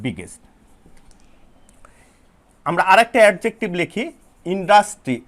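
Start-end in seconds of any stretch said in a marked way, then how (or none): 0.0-0.4 বিগেস্ট repeated much lower and softer, falling away. Shown as a demonstration. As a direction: let বিগেস্ট drop, low and soft. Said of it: "আর superlative degree হচ্ছে".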